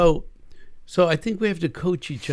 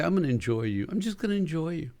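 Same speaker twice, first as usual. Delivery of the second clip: gentle promise; 3 semitones higher, 6 dB quieter, faster than usual. Shown as a demonstration. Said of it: "look at your spouse and say".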